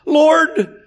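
the brother cries out to the Lord for the inheritance; pleading man. Retold or imitated. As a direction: act the man who jumps up and begs for his share. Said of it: "One jumps up and says".

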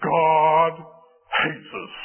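loud first word dropping to a whisper; slow, bitter accusation falling away into unvoiced breath; accusing complaint. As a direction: start strong, then let it sink to a whisper. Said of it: "they said about God".

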